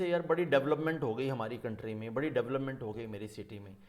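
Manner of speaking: quick casual "डेवलपमेंट", first syllable "DEV"; common mispronunciation. Retold or imitated. Teacher quoting what we always say, casual common pronunciation. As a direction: rattle it off, stressing the start of "डेवलपमेंट". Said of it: "the word we always say".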